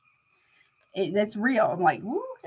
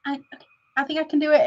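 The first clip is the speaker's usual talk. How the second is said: higher, fast, self-pumping inner voice; hammed-up nervous confidence; 6 semitones higher, faster than usual. Quoting her past self to viewers, mock brave. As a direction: talk yourself into it, quick and lifted. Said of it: "I'm like".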